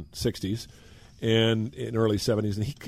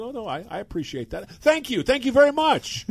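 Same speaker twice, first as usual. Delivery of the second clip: much higher, mock meek backing down; sheepish thanks; 12 semitones higher than usual. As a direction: squeak out an embarrassed thank you. Sheepish reply to an angry manager.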